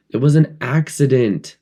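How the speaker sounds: high, firm insistence; stubbornly. A narrator's reading. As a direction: dig in and insist. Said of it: "said Piggy stubbornly".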